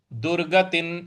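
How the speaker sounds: दुर्गतिं said ending in a clear n; anusvara as n. Shown as a demonstration. Teacher shows the anusvara said as n. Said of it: "इस प्रकार से बोलेंगे".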